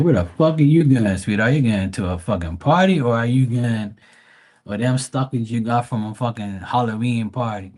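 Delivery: loud mocking rant at a woman; mock yell. Roasting a woman's stockings to his sister, loud mock yell. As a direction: yell it out, half laughing at her.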